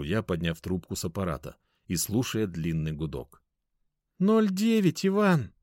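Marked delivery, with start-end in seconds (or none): 4.2-5.5 high, exasperated answer with a pointed name; implied insult. A narrator's reading. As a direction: make the name sound like "you fool". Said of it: "Даша сказала моё имя так". (высоко, с подразумеваемым «дурак»)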